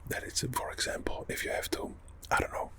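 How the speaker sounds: whispering with a mouthful; mouth full. Real, not acted. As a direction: talk around a bite of food. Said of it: "I got the Payco in my mouth".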